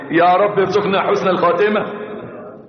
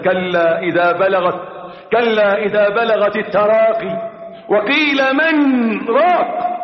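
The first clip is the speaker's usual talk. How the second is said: slow, chanted recitation of the verse; Quran recitation; 3 semitones higher, slower than usual. Acted. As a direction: intone the verse slowly, with melody. (تلاوة مجوّدة بطيئة)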